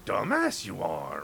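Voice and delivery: backwards talking. Retold or imitated. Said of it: "he's gonna start the backwards talking".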